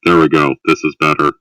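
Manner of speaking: muffled through a cup; talking into a Culver's cup. Real, not acted. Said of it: "You're just talking into a cup".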